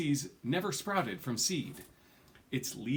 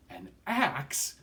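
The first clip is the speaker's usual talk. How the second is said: higher, louder shocked question; horrified gasp; 5 semitones higher, 3 dB louder than usual. A narrator's reading. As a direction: recoil in horror at the word. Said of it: "exclaimed in sheer horror".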